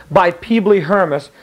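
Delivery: slow, solemn oracle reading. Shown as a demonstration. The teacher reads the oracle to the class, slow and solemn. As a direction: intone it like a prophecy. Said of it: "See where the italics is".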